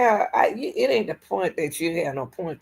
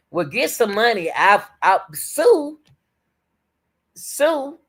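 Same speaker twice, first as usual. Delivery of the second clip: retold thought; 4 semitones higher, 4 dB louder, slower than usual. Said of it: "I was thinking like".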